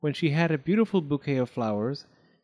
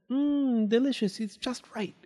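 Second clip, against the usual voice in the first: high, savouring delight; delighted girl; 10 semitones higher than usual. A narrator's reading. Goldilocks tasting the little bowl, delighted. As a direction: savour it in a high voice, softening at the end.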